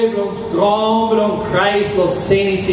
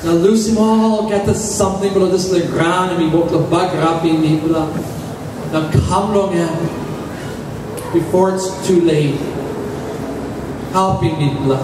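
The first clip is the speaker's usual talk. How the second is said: rhythmic pleading prayer; 2 semitones higher than usual. Acted. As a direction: pray for the people. Congregational prayer for the people.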